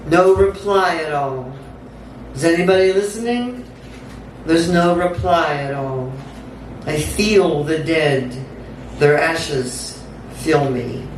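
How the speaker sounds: measured, incantatory spoken-word delivery; dramatic poem read aloud; poetry reading. Acted. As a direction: recite it in deliberate phrases with pauses between.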